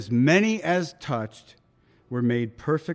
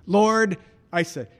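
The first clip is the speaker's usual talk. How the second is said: raised, desperate call to Jesus; retold cry for help; 5 semitones higher, slower than usual. Preacher reliving his jail cell plea, high urgent cry. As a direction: cry out as if sinking.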